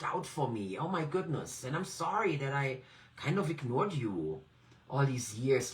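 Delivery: gentle, grateful talk to an inner part; sincere inner dialogue. Shown as a demonstration. Coach modelling a thankful talk with her inner support part, sincere. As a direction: speak kindly to a part of yourself. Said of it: "I invite you to just have a dialogue with that part".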